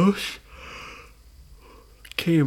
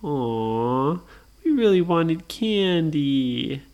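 disappointed whine; much slower than usual. Acted. Disappointed brothers.

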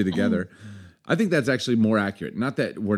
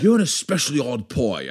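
badly faked Irish lilt; attempted Irish accent. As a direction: have a shaky go at an Irish accent. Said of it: "I can't do Irish".

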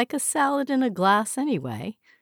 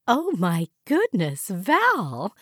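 mildly gushing; 3 semitones higher, slower than usual. Acted. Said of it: "she gushed with false delight".

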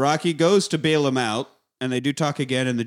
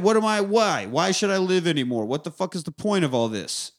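acted anguished outburst; 3 semitones higher than usual. Rocky and Creed confront each other.

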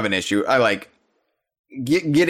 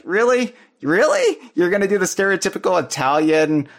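incredulous; 6 semitones higher than usual. Real, not acted. Incredulous complaint about trailer.

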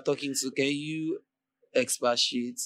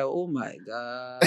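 slow drawn-out oh my God; 3 semitones lower, 7 dB quieter, much slower than usual. Retold or imitated. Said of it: "the person will be like".

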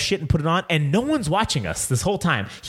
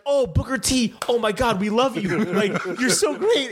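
mock gushing, higher voice; imitated starstruck fans; 5 semitones higher than usual. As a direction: gush over a celebrity, half-laughing by the end. Imitates starstruck Russians greeting star.

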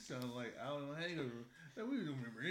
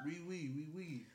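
mock French accent; 4 dB quieter than usual. Friend asked for best France voice, mock French accent. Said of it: "hear your best France voice".

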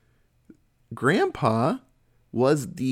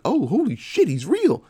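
shocked realisation; 9 semitones higher, 4 dB louder than usual. Retold or imitated. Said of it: "I'm like".

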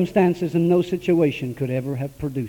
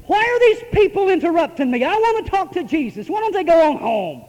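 higher, impatient inner voice; mock annoyed thought; 9 semitones higher than usual. Preacher mocking his own annoyance at the altar, higher. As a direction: grumble it like a put-out worshipper. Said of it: "I felt like".

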